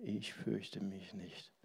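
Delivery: slow, hushed whisper. Shown as a demonstration. Preacher repeating the Taizé song line, whispered.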